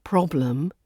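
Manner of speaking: "problem" ending in an unstressed -ləm; schwa in problem. Shown as a demonstration. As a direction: reduce the E of "problem" to a relaxed uh. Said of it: "the schwa turns up as the E".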